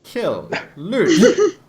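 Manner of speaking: high, mock-confused barbarian grunts; a lightly mocked simple-minded barbarian; mocking Zavon. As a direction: imitate a baffled brute who only knows killing. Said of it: "He's like".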